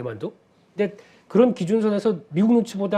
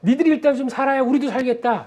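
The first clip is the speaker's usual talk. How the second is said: higher, lightly voiced official; mock government voice; 7 semitones higher, 3 dB louder than usual. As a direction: play the government conceding. Voicing Chinese government.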